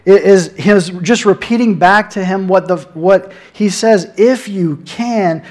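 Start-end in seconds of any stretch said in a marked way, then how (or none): 4.1-5.4 "you" drawn out and raised; slow, higher delivery that leans on "you"; stress on YOU. Shown as a demonstration. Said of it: "he's putting the emphasis on the you".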